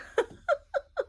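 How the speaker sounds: a short high burst of laughter. Real, not acted. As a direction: laugh at yourself. Laughs at own fast talking.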